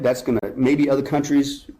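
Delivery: dry sarcastic dismissal. Acted. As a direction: say it with mock disbelief. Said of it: "Of course, I'm using sarcasm".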